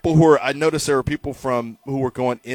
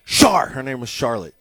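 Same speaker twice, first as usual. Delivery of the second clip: high, loud, slow bellow; dad yelling for his wife from the TV room; 5 semitones higher, 5 dB louder, slower than usual. Retold or imitated. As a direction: holler her in from the couch. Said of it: "he'd yell for his wife".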